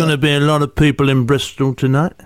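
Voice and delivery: lightly voiced comic delivering a gag; Terry Alderton. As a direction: tell the joke in the comedian's voice, with a laugh at the end. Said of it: "That's a very good impression".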